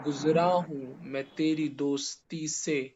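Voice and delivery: slow, measured reciting of a line of poetry; verse recitation. Shown as a demonstration. Teacher quotes a verse as an example, slow measured recitation. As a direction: recite it word by word, lingering on the vowels. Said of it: "یہ شعر ہے شاید".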